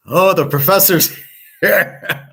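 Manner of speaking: high, slow announcer voice broken by a laugh; mock grand entrance. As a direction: announce yourself like a star walking in, giggling. Imagined grand office entrance with music.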